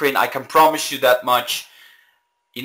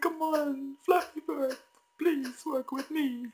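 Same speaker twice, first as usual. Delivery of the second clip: desperate plea; 12 semitones higher, 13 dB quieter than usual. Real, not acted. Begging the game.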